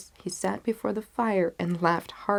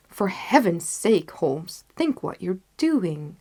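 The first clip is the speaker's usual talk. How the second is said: alarmed plea; 4 dB louder, slower than usual. Acted. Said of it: "I cried".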